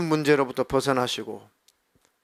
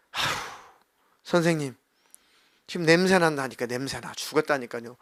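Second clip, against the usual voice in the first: irritated complaint; 3 dB quieter than usual. Retold or imitated. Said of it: "하고 막 짜증을 부리고".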